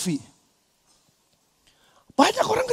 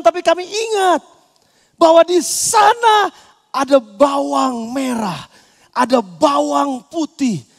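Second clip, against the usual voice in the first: mock whiny grumble, slowing on the onions; preacher imitating grumbling Israelites; grumbling complaint. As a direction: whine like ungrateful Israelites longing for Egypt. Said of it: "bersungut-sungut kepada Tuhan".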